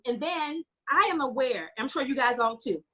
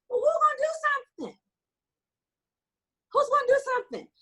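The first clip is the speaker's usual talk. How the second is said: choked up; 13 semitones higher, faster than usual. Real, not acted. Speaker moved to tears recalling the little girl, crying plea. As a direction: voice breaking high with tears, pleading. Tearful retelling of abandoned child.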